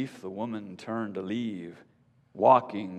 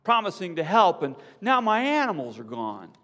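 higher, louder accusation; angry shout; 10 semitones higher, 5 dB louder than usual. A narrator's reading. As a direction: rage at the con. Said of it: "she shouts".

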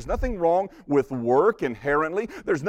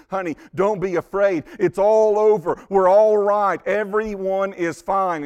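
comforting husband; 5 semitones higher, 6 dB louder than usual. Retold or imitated. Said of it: "tries to comfort her".

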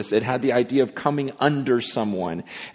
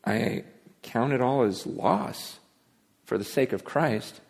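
softer and slow, after a long pause; sincere confession; 6 dB quieter than usual. Retold or imitated. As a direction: say it gently, letting the boasting fall away. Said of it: "he goes".

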